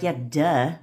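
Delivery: casual, unbothered duh tone; obvious, matter-of-fact. Shown as a demonstration. Coach showing how to throw affirmations out, matter-of-fact. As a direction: toss it out as if obvious. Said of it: "that should be the whole fucking tonality".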